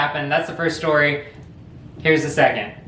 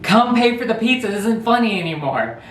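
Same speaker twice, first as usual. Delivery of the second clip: mock plea; 5 semitones higher than usual. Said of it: "my buddy's like".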